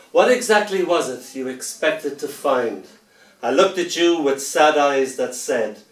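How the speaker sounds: lightly dramatic spoken-word reading; understated poetry performance; poem recital. Acted. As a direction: deliver it as a wry dark poem.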